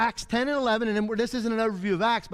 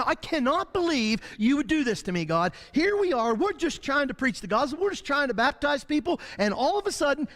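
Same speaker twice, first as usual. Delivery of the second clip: a touch of whiny complaint to God; mock whining; 3 semitones higher than usual. Persecuted believer complaining to God, mock whining. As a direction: put on a pleading, moaning grumble. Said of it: "I'm crying and whining and moaning".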